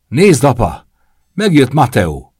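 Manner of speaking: high, loud excited call to his dad; a kid yelling that Matteo has arrived; child's shout. A narrator's reading. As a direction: shout it out like an eager little boy. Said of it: "Luca kiáltását".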